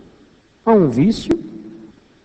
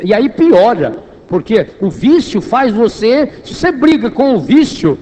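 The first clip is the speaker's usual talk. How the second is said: higher, louder, driving sermon delivery; impassioned preaching; 6 semitones higher, 3 dB louder than usual. Real, not acted. Preacher warning the congregation about fighting addiction, impassioned. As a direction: press the warning home with rising force.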